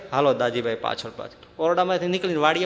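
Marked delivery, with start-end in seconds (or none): 0.1-1.3 gentle call. Retold or imitated. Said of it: "મહારાજ કહે".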